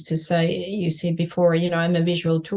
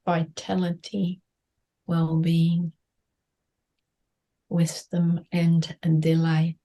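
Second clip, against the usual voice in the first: guided meditation. Acted. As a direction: guide them gently inward.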